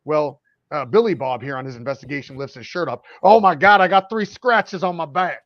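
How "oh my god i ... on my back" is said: hammed-up Southern yokel, loud and high; mock Southern accent. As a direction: play a panicked Southern ghost hunter shouting. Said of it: "That's Becca's accent".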